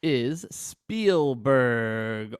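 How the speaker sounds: drawn-out, hammed-up announcer intro; mock announcer. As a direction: stretch the name out like a ring announcer. Hammed-up guest introduction on podcast.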